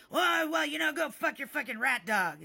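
high, loud blustering comeback; hammed-up parting yell; mock angry insult. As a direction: imitate a sputtering angry man. Acted insult by angry man.

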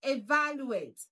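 "Evaluate" with VAL stressed; stress on second syllable. Shown as a demonstration. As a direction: punch the second syllable of "Evaluate", then fall. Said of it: "That's the right pronunciation".

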